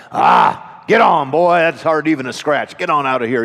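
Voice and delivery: a mild mock shout of a dad brushing his son off; a lightly voiced dad waving off a scraped knee; dismissive dad. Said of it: "My dad would always say something like".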